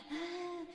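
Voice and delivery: mock crying moan, high and soft; a brief high "ah" imitating a weeping woman; imitated wail. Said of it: "llorando, gritando". (lamento agudo y suave, imitando llanto)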